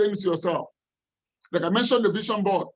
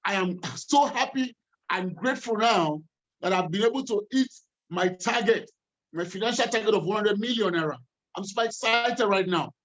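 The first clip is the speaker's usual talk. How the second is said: excited affirmation. Shown as a demonstration. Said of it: "you say with some excitement within you".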